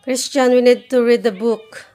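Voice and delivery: loud call across the room. Real, not acted. Mother calling child to read.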